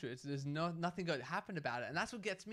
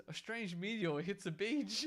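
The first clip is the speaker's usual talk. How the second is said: lightly mock news reporter, drawn out and slightly higher; 4 semitones higher, slower than usual. Retelling a beach hoax to the co-host, mock news report. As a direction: read it like a slow, mock news headline. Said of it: "then the news report came afterwards".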